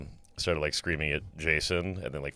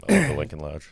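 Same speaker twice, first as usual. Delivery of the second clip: put-on British accent, a bit louder; mock British accent; 2 semitones lower, 5 dB louder than usual. Playfully imitating Mark Geary's British accent for the podcast. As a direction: say it like the British founder. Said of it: "sorry to make fun of your voice, Mark Geary".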